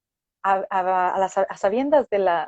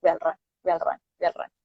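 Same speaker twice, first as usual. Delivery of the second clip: insistent inner voice; 2 semitones lower, faster than usual. Retold or imitated. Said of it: "día y noche me pasaba eso por la cabeza".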